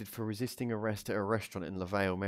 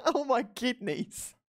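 out of breath from laughing; much slower than usual. Real, not acted.

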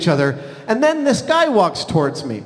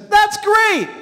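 mock delighted exclamation; 14 semitones higher than usual. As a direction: imitate someone gleefully unbothered. Acts out the man's delighted reply.

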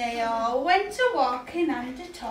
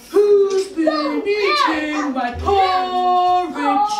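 slow, louder papa bear, not actually low; 3 semitones higher, 5 dB louder, much slower than usual. Acted. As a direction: drag it out like a big bear. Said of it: "Papa Bear has a really low voice".

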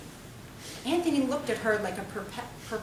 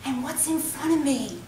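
high, slow, prissy mock lady voice; high-pitched voice; 11 semitones higher, 6 dB louder, slower than usual. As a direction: lift it way up and drawl it like a dainty neighbor. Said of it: "He continued in a high-pitched voice".

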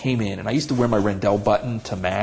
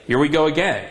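sarcastic tone; 3 semitones higher, 4 dB louder than usual. Retold or imitated. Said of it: "in that tone".

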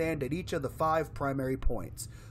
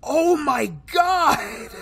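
slow, loud, high cry of horror; horrified cry; 12 semitones higher, 7 dB louder, much slower than usual. Real, not acted. Horrified by the blood.

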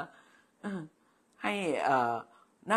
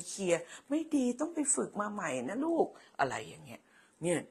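higher, lightly voiced strict director mother; imagined mother as school director; 6 semitones higher than usual. Pretend mother inspects her child's handwriting, higher and fussy. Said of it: "สมมุติว่า".

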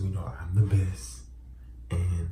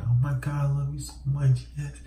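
fake sleep moaning; 9 semitones higher, 3 dB louder than usual. Shown as a demonstration. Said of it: "just be like".

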